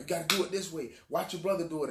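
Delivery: mock-exasperated father drilling it in; imitating dad pushing his son to get it right; insistent dad. Dad scolding son who stalled.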